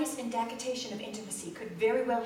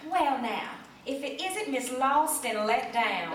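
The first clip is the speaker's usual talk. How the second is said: snippy; 4 dB louder than usual. Retold or imitated. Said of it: "Belinda Kite might have snipped".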